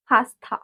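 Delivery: "pasta" with a puffed t; aspirated t. Shown as a demonstration. Teacher repeats after saying T sound is th, aspirated t. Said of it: "T sound is th".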